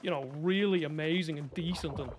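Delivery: lightly imitated posh South Dublin accent. Shown as a demonstration. Streamer mimicking posh boys from South Dublin, South Dublin accent. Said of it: "if you're from the South Side in Dublin".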